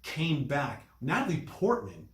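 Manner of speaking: ordinary delivery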